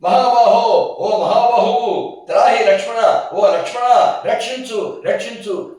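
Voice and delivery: high, slow, loud desperate wail; a drawn-out dying call to Lakshmana; dying cry for help. Acted. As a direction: plead for rescue with a last breath. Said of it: "అని ఆయన చచ్చిపోయాడు".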